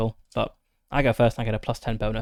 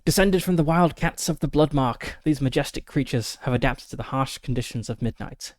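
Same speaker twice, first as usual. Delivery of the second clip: nature documentary. Acted. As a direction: narrate it like a nature film. Reads the creature description aloud.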